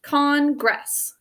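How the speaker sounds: "Congress" split into two clear syllables; measured teacher's sounding-out of "Congress"; sounded out. Shown as a demonstration. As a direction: say "Congress" as con, gress. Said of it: "Sound it out with me".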